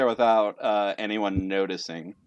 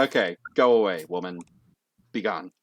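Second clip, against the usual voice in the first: low, unimpressed brush-off; curt dismissal; 5 semitones lower than usual. Acted. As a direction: send her away, voice sinking. Judge dismisses the waitress.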